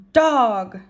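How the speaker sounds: loud parrot squawk; parrot scream. A narrator's reading. Parrot spotting a dog in the shop, loud squawk. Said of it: "screamed Gertrude".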